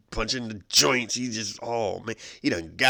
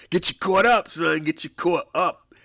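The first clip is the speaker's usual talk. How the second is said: loud, higher hype-man call; 7 semitones higher, 8 dB louder than usual. Acted. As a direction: pump up the listeners. Radio host hyping his show.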